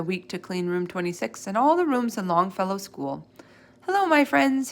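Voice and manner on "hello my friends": cheery greeting, higher and louder; cheerily. Acted. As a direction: call out a bright hello to the pets. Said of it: "he said cheerily".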